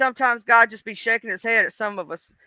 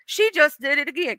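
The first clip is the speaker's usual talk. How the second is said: exasperated God; 3 semitones higher than usual. Acted. God complaining to Jesus about her, exasperated. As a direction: stretch it out, fed up with her. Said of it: "this is Jesus and God having a conversation".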